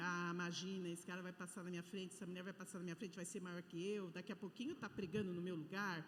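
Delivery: low, soft grumbling to oneself; jealous muttering. Retold or imitated. Preacher voicing a leader's jealous thoughts, quietly grumbling. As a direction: mutter it like a jealous leader afraid of being outdone.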